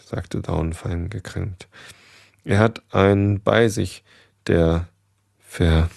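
measured read-aloud storytelling voice; story narration. A narrator's reading. Reader tells a goose tale to listeners, story narration. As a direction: read the tale clearly, lightly voicing the dialogue.

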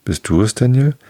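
questioning call, rising sharply on the name. A narrator's reading. Old gander turns to a falling acquaintance, calling out. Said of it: "drehte den Kopf nach mir und rief".

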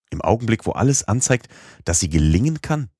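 high-pitched disbelieving question; incredulous questioning. A narrator's reading. Uncle incredulous at giving up.

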